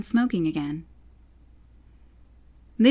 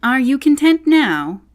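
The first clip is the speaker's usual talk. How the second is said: sharp question; 7 semitones higher, 9 dB louder than usual. A narrator's reading. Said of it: "said the caterpillar".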